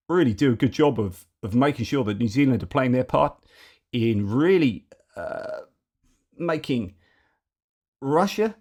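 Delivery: light hammed-up Kiwi accent, mate and bro; a playful put-on New Zealand accent; lightly done Kiwi bloke accent praising New Zealand; mock New Zealand accent. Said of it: "with this crazy accent now".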